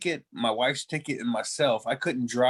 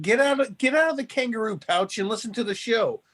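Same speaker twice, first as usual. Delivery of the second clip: laughing; 8 semitones higher than usual. Acted. Teasing friend, laughing.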